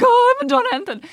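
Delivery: high-pitched panicked protest; hammed-up nervous denial; mock panic. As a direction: blurt it high, imitating a guilty innocent. Acting out nerves at a police stop.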